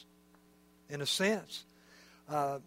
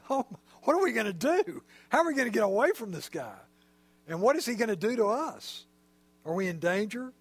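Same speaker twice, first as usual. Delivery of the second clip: higher, fast, worried voice of the frightened disciples; panicky disciples; 4 semitones higher, faster than usual. Retold or imitated. Disciples eyeing the wild man, higher, quick and scared. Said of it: "the disciples looking at this guy going".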